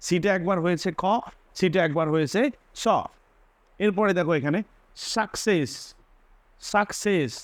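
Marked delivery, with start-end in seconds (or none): 5.1-7.3 অ্যাকসেন্ট said খ then স. Shown as a demonstration. Teacher showing both sounds of the double c. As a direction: split অ্যাকসেন্ট into খ and স. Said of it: "সিটা হয়েছে প্রথমে খ".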